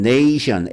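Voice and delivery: 네이션 with A said as "ay"; long A pronunciation. Shown as a demonstration. Teacher contrasting 네이션 for students, long A demo. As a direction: glide "ne-i" at the start of 네이션. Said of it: "A로 발음됐죠".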